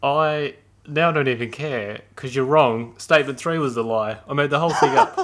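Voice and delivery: loud gloating reveal; triumphant. Real, not acted. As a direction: crow about fooling him.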